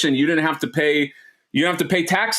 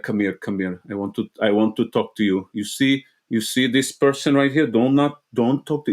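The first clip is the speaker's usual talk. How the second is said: put-on low-key, intense Arab-accented father; thick Arab accent; 4 semitones lower than usual. Scary dad warning his son about someone, Arab accent. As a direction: lean on each word with an Arab accent. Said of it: "he gets very low".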